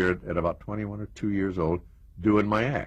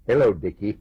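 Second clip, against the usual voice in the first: Stan Laurel; 4 dB louder than usual. Retold or imitated. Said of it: "he sticks his head out, says".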